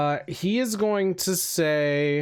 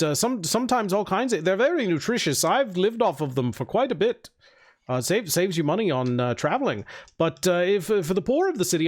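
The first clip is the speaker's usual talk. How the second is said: slightly higher, polite and helpful; a hint of a humble bean-maker; lightly voiced eager spellcaster; 3 semitones higher than usual. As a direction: lightly play an obliging traveler.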